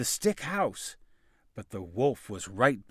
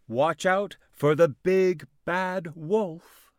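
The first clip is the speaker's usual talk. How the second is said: ominous warning; 5 semitones higher, 4 dB louder, slower than usual. A narrator's reading. Warning aside to listener.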